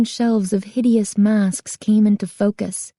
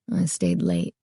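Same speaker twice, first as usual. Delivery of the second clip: low, soft and hushed; quiet; 14 semitones lower, 6 dB quieter than usual. A narrator's reading. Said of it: "he said quietly".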